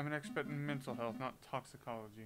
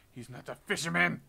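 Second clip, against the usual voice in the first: exasperated; 3 semitones higher, 11 dB louder than usual. Acted. Exasperated correction.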